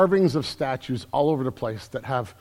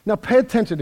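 "pay attention" called out louder, with "pay" punched; 7 semitones higher, 4 dB louder than usual. Real, not acted. Pastor rousing his congregation, calling out "pay attention". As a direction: call the room to attention. Preacher calls the church to listen.

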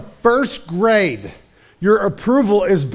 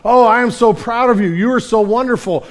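loud, raised, gushing "Oh, I am so proud"; gushing praise; 5 semitones higher, 5 dB louder than usual. Retold or imitated. Parent cheering a kid who hit a home run, loud mock pride.

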